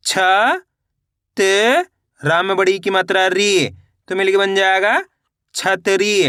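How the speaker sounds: level sing-song recitation, syllables drawn out; measured classroom chant with stretched endings; spelling drill. Shown as a demonstration. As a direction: sound it out for beginners, letter by letter.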